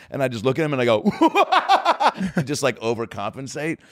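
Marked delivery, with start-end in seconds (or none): 1.1-2.4 very high, exaggerated fake laugh; overcompensating laugh. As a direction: force out a far too eager laugh. Demonstrates his overcompensating forced laugh.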